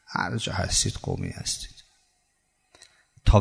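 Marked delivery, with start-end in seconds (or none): 0.1-1.8 hushed whisper. Acted. Preacher confides the point to the congregation, hushed whisper. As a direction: drop to a near whisper, low.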